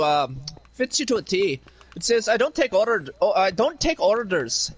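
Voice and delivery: lightly put-on Irish accent; casual mock Irish brogue for laughs. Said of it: "really good at the accent".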